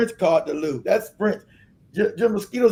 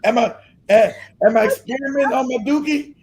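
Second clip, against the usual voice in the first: mock disbelief; 4 semitones higher than usual. Mocking the British word for toilet, incredulous. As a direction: act baffled at the word. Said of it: "I'm like".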